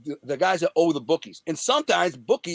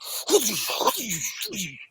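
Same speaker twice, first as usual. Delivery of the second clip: wordless mimicked blows; imitated punching; 5 semitones higher, 4 dB quieter than usual. Storyteller showing his punches in the fight, imitated noises. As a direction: make the noise of punches flying.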